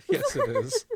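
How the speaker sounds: laughing through the words, pitch jumping high; a real laugh bursting out while you agree; laughing yes. Real, not acted. Laughing while confirming the fic.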